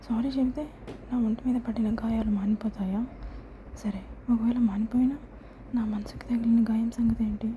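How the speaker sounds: sadly. Acted. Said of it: "అని బాధగా అడిగింది".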